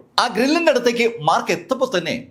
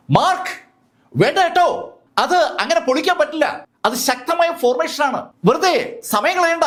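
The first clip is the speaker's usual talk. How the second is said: higher, urgent warning called up; calling out a warning; 10 semitones higher than usual. A narrator's reading. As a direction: shout to stop him. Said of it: "Jinson മാർക്കിനോട് വിളിച്ചു പറഞ്ഞു". (ഉയർന്ന സ്വരത്തിൽ തടയാൻ വിളിച്ചു പറയൽ)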